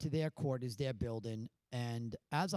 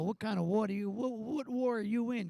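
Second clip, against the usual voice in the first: mock scolding, raised pitch and louder; tearing into him; 6 semitones higher, 4 dB louder than usual. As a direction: imitate a challenge that climbs as it goes. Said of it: "you tore into him".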